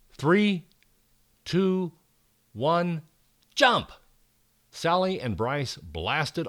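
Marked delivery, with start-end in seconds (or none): 0.1-3.9 excited countdown. Acted. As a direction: count down and shout jump. Countdown before jumping.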